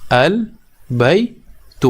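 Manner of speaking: البیت stretched very long with a rising end; very slow teacher demo of البیت; drawn-out model word. Shown as a demonstration. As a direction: draw out البیت slowly so the class hears every sound. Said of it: "ہم بولیں گے البیت".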